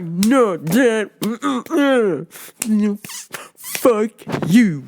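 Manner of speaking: mock defiant son with halting, separated words; hammed-up refusal, word by word; imitating deaf son. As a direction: play a defiant signing son. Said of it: "And the son's like".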